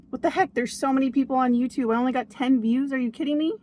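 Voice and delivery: high, incredulous mock outrage; indignant. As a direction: play up the disbelief at the view count.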